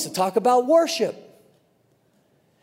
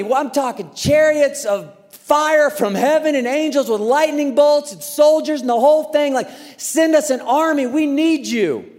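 pleading prayer; 6 semitones higher, 3 dB louder than usual. Retold or imitated. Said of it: "they're praying".

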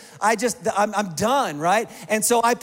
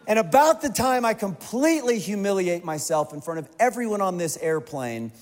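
usual speaking voice

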